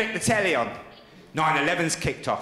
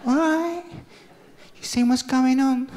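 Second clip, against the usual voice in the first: chirpy phone voice; 6 semitones higher than usual. Retold or imitated. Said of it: "I said".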